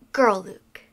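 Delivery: timid whispered wish; whispering. Real, not acted. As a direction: breathe the words out shyly.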